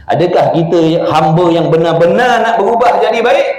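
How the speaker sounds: ordinary talk, nothing marked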